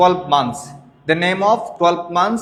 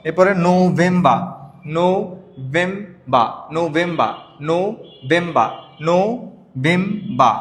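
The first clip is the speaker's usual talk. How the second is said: নভেম্বর stretched very slowly as "no-bem-ba"; slow drill; much slower than usual. Shown as a demonstration. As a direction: draw out নভেম্বর syllable by syllable for practice. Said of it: "আমার সাথে একটু practice করেন".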